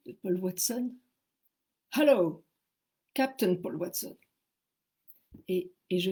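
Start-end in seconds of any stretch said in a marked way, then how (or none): 1.9-4.2 deep voice. Retold or imitated. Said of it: "j'entends une voix très, très grave".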